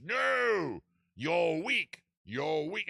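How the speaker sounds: high, loud Southern villain; hammed-up Southern put-down; Kingsford. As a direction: scornfully bellow it as the Southern lord. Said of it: "And the king says".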